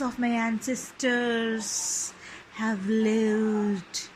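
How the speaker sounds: slow, hissing snake voice, lightly voiced; a lightly voiced serpent, hissing slowly in the sleeper's ear. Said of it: "hissed in his ear".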